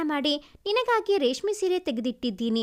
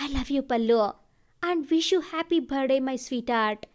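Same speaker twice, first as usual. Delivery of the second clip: tender declaration; 3 semitones lower, much slower than usual. Acted. Lover confessing to Pallavi on her birthday, slow and tender. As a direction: linger on every word like a vow.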